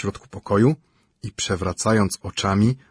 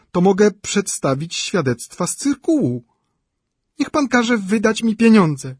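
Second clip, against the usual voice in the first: shrill complaining widow; 9 semitones higher, 4 dB louder than usual. A narrator's reading. Szczukina voiced by reader.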